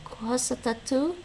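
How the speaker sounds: slow careful Gaelic "kuasatatu"; Gaelic word. Shown as a demonstration. Learner reads Gaelic phrase from lesson, slowly. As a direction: sound out "kuasatatu" slowly, syllable by syllable. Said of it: "you would use".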